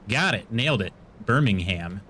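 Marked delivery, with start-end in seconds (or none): 1.2-2.0 "Birmingham" in a low pitch with a full "ham"; every syllable emphasized. Shown as a demonstration. Streamer repeating the town after nailing it, "Birmingham" with a clear, low "ham". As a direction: lower your pitch and say "Birmingham" as Bur-ming-HAM. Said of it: "We like to emphasize every syllable".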